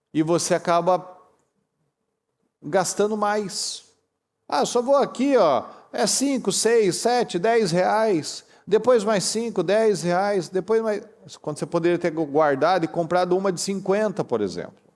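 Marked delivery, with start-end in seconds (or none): 4.5-11.1 high, lightly careless voice counting small buys; mock impulsive spender. Preacher imitating a careless spender, high and carefree. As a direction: play the shopper who thinks it's only cheap.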